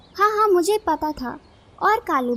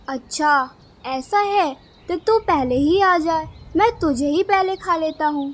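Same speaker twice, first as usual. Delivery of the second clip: menacing kite villain; 3 dB louder than usual. Acted. Kite threatens to eat the challenger first, menacingly taunting.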